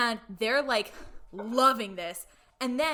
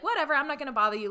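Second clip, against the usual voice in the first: quick, higher, brushed-off "whatever"; mock dismissive; 4 semitones higher, much faster than usual. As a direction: rattle it off like you couldn't care less. Wife brushes off husband, retold.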